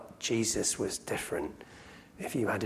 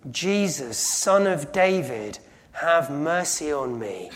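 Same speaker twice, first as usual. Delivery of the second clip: calling out for mercy; crying out; 3 semitones higher, 5 dB louder, slower than usual. Retold or imitated. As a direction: cry out to be heard over the crowd. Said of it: "cries out at the top of his voice".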